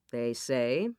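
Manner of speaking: ordinary delivery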